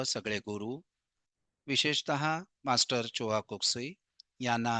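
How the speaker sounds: low, slow, measured invocation; opening prayer. Real, not acted. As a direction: reverent group prayer, softening on the closing words.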